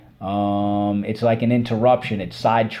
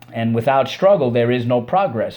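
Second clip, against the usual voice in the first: quoting with emphasis; 5 dB louder than usual. Retold or imitated. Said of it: "said Frederick Douglass".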